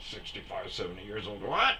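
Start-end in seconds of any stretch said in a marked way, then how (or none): 1.4-1.8 high, rising question of disbelief; mock surprised. Storyteller repeats the older woman's reply, high and baffled. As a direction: imitate her baffled reaction.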